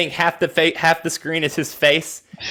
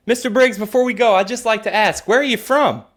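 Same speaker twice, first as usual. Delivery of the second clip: lightly acted host, pitched up; higher, pretend-polite interviewer; mock interviewer; 4 semitones higher than usual. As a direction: set up the gotcha question. Acts host's last question to suspect.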